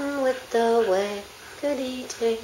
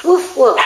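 louder, punchy "woof, woof"; mock dog bark; 5 dB louder than usual. Owner prompting the dog to bark, loud mock bark. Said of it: "woof, woofs".

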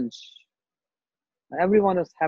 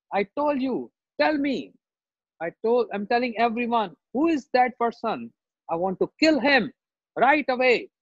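angry demand; 5 semitones higher than usual. Acted. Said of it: "Why you so much angry?".

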